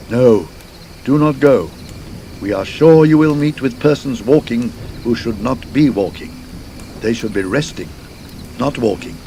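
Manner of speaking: urgent warning. Acted. Villagers warning the two men not to go, urgent. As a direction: warn them off, insistent.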